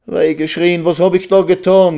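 high, lamenting outcry; wailing. A narrator's reading. Reisel realises her own mistake, wailing high. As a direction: wail in horrified self-reproach. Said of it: "jammerte Reisel".

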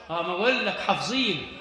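low, soft scoffing chuckle; low mocking laugh. Preacher mocks the crowd for knowing only worldly things, soft laughing scoff. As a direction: scoff at the crowd under your breath with a laugh.

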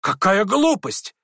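shouting. A narrator's reading. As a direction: yell it out with contempt. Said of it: "закричал племянник Лебедева".

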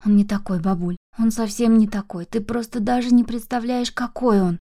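usual speaking voice

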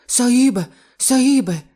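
high, loud panicked gasps; terrified, still out of breath; gasping wheeze. Acted. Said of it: "прохарчав норець і, хапаючи ротом повітря".

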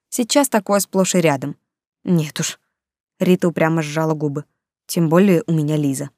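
ordinary delivery, nothing marked

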